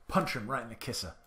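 a hint of an old-timey tough guy on "Punch 'em right in the kisser"; lightly voiced 1930s gangster, punching "kisser"; 1930s dude. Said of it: "I don't know why I'm talking like a nineteen thirties dude".

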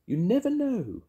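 witch voice. Acted. Mavis speaking in story.

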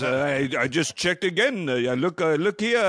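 hotel receptionist politely apologizing to a caller, lightly imitated; imitating receptionist. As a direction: play the apologetic front desk clerk, half-hearted. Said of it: "And she goes".

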